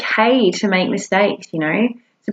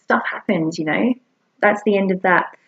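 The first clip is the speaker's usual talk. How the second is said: soft reassurance; 3 dB quieter than usual. Shown as a demonstration. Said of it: "You tell them".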